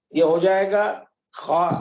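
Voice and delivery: خا ending in a long aa; Arabic letter name. Shown as a demonstration. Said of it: "اس کو ہم خے کہتے ہیں".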